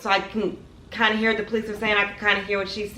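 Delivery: ordinary talk, nothing marked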